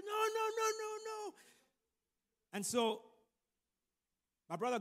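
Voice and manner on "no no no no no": very high, repeated mock protest; mock panicked refusal. Acting out refusal at the escalator, mock panic in a high voice. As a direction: imitate frantic refusal far above the usual pitch.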